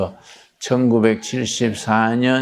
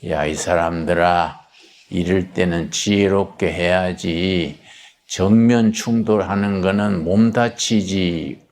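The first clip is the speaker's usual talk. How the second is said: 목소리를 뚝 떨어뜨려 낮게 타이르듯; 교수가 목소리를 낮춰 조용히 타이르듯; 목소리 낮춰서; 4 semitones lower than usual. Retold or imitated. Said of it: "갑자기 목성이 탁 떨어지고". (목소리를 뚝 낮춘 교수의 타이름)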